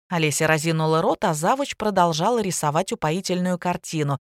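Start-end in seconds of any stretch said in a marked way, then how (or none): none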